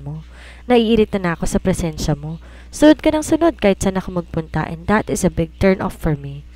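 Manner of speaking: a long, rising tirade of irritation; annoyed man scolding Jane; irritated. Acted. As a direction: pour out his contempt for her. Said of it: "Inis na inis sa sabi nito".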